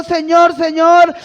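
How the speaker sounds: loud, urgent plea, retold from the pulpit; preacher voicing a frightened, insistent appeal; acted fearful urgency. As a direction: cry out the questions as if overwhelmed. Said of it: "Él estaba temblando, temeroso".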